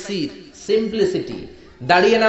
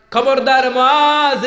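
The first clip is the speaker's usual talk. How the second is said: slow, higher, louder warning; stern warning; 7 semitones higher, 4 dB louder, much slower than usual. Retold or imitated. Prophet warns Muaz sternly, slow raised warning. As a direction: drag out the warning like a scolding. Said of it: "ধমক দিয়ে বললেন".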